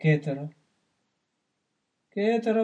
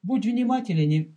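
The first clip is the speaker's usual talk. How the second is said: ordinary delivery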